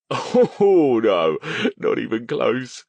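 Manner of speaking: high, loud words burst out through laughter; spluttering between laughs. A narrator's reading. Eddie to Verity, spluttering with laughter. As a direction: friend mocking Stone, spluttering through laughter. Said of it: "Eddie spluttered out between laughs".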